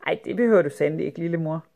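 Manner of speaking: quick, eager brush-off to mother; hurried eager reassurance. Acted. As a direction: rush the words out to get her out the door. Girl hurrying mother out.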